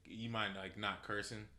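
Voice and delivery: softly retold polite ask; soft, tentative request; humble request. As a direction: ask a favor gently, not pushing. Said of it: "the most humble way".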